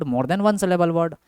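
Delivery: very slow, word by word; slow dictation. Shown as a demonstration. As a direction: dictate it so students can write. Teacher dictates a term slowly. (धीमे बोलकर लिखवाना)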